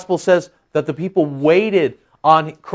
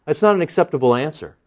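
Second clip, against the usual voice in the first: That's not an acceptable answer repeated faster and lighter; quick echo; 3 dB quieter, faster than usual. Shown as a demonstration. Preacher repeating his verdict to the crowd, quick and lighter. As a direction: toss off the repeat quickly, a little quieter.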